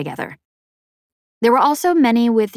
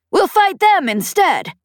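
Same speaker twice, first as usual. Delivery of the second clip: high, brash alien matriarch; a proud, teasing pirate boss; 13 semitones higher, 5 dB louder than usual. A narrator's reading. Voiced alien pirate leader Peg.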